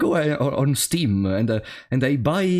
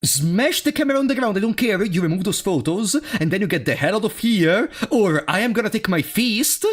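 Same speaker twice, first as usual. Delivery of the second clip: rising, heated telling-off; angry threat; 6 semitones higher than usual. Real, not acted. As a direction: threaten him, building up. Streamer threatens the photographer.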